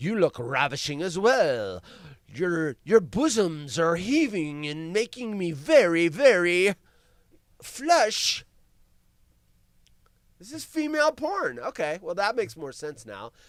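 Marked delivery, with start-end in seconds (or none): 0.0-8.4 slow, drawn-out period-drama romantic hero voice. Acting out a romance novel scene, replying as Mister Darcy. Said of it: "And he's gonna go".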